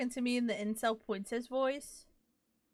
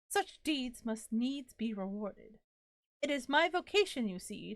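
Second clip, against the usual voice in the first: grand spirit voice. Acted. Reading the disembodied spirit's lines to the player, courtly. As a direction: read it like a polite, flowery ghost.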